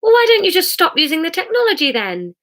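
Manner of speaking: a touch of naive puzzlement; puzzled questioner. A narrator's reading. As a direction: ask it as if the answer were obvious. Jesus puts naive question to Hamish.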